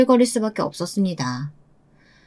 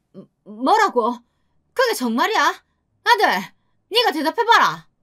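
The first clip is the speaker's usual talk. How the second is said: stammering start, then high indignant demand; shocked anger; 8 semitones higher than usual. A narrator's reading. Mother-in-law turning on her son after the revelation, shocked and angry. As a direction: demand an answer, aghast and high-pitched. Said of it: "하며 화를 냈습니다".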